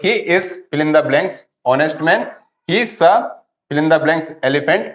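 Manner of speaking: slow, deliberate reading of each blank; slow dictation reading. Shown as a demonstration. Teacher reading exercise sentences aloud to the class, slow and deliberate. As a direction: spell out the exercise sentences slowly.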